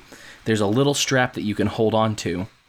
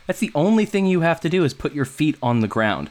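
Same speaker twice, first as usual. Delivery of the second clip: mock-patient, higher, half laughing; exasperated; 5 semitones higher than usual. Retelling how he told Sean the obvious, exasperated and amused. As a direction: spell out the obvious, amused disbelief.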